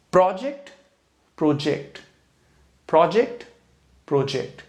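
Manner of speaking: प्रोजेक्ट said PRO-ject, then pro-JECT, twice over; alternating stress. Shown as a demonstration. Teacher contrasting noun and verb stress of प्रोजेक्ट. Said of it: "sound देखें कौन सी emphatically आ रही".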